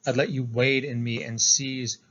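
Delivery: slow, measured poem recital; deliberate, weighted reading of a poem; poetry reading. Acted. Reads a poem aloud.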